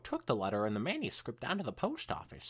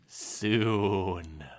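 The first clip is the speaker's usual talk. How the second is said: evasive Twilight; 10 semitones lower, 6 dB louder than usual. Acted. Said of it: "Twilight answered".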